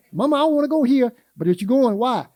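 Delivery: mock child protesting to mama; whiny child. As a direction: whine like a child asking why. Grandma retelling her kids' whining.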